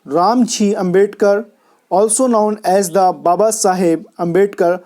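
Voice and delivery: reading a passage aloud very slowly, word by word; slow dictation reading. Shown as a demonstration. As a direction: spell out each term for students to write down. (धीमी गति से passage पढ़कर लिखवाना)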